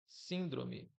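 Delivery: "síndrome" com força na primeira sílaba, SÍN; tônica em SÍN. Shown as a demonstration. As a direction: destaque o SÍN inicial de "síndrome". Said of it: "eu falo síndrome". ("síndrome" com a antepenúltima sílaba forte)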